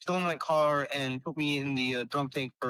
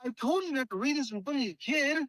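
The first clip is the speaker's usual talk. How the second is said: imitating own exasperated warning; 10 semitones higher, faster than usual. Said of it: "I said".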